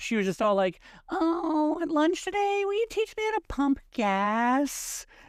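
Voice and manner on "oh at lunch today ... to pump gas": over-the-top exaggerated whine, very high and drawn-out. Retelling a friend's lunch request, the speaker does an exaggerated imitation of a friend. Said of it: "I can't do her voice without like making it extra".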